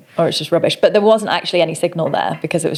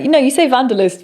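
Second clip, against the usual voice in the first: higher, quick correcting quote; retold correction; 7 semitones higher, faster than usual. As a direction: imitate them insisting, pitched up and hurried. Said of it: "they were like".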